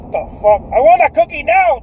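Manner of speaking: put-on high, loud toddler tantrum; angry toddler yell. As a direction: demand the cookie, shouting. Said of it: "little Richard's like".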